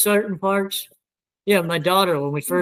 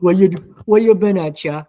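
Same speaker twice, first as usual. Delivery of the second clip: greeting kin in a heavy South Louisiana accent; 4 dB louder than usual. Shown as a demonstration. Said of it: "then you get to South Louisiana".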